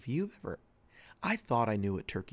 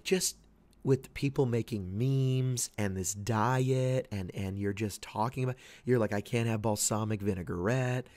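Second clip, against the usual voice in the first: imitating exasperated wife; 2 semitones higher, 6 dB louder, slower than usual. Wife complaining about memes and diet, mock exasperated.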